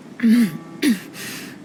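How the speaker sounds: dry little throat clear. Acted. Uneasy in the dry desert air.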